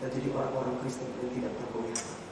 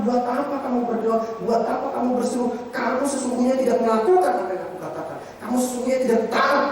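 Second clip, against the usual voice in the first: loud, higher, stern rebuke; God's rebuke; 8 semitones higher, 9 dB louder than usual. Acted. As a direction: thunder the question as God scolding. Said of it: "Tuhan bilang".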